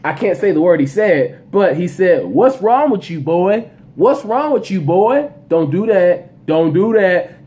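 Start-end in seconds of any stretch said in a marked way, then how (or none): 2.2-7.4 lightly imitating a player yelling; a touch of a trash-talking yell; mock yell. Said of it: "and yells at him".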